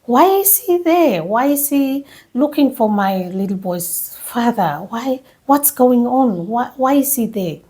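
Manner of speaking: mock-exasperated demands, opening one pitched high; a retold, half-angry string of whys; surprised and angry. Wife hearing husband is in hospital, retold as surprised anger. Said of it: "surprised and angry".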